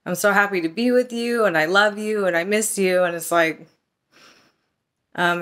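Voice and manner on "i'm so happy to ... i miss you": mock-sweet boyfriend. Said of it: "he's like".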